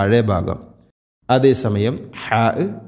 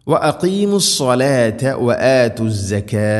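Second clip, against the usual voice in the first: slow, flowing tajweed chant; Quranic recitation. Shown as a demonstration. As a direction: recite it joined, holding the long vowels. Quran teacher models the recitation.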